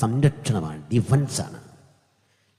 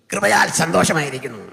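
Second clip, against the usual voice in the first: put-on, higher pastor's voice; mimicry-artist voice; 5 semitones higher, 4 dB louder than usual. Preacher mocking a pastor's reply after meetings, mimicry-artist voice. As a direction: imitate a pastor who sounds like a mimic. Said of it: "മിമിക്രിക്കാരൻ്റെ sound പോലെ".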